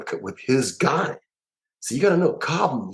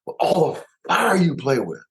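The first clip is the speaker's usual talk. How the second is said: wondering; 6 semitones higher, slower than usual. Retold or imitated. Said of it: "And you think".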